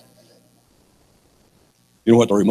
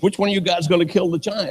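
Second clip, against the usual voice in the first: put-on high-pitched eager boy; young David; 9 semitones higher than usual. Preacher plays boy questioning the soldiers, high and eager. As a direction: pipe up like a cocky kid. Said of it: "David says".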